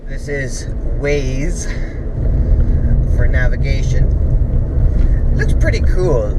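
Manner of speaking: jolted by a bumpy drive; on a bumpy road. Real, not acted. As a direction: talk over road bumps. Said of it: "Sorry for the bumpy vision".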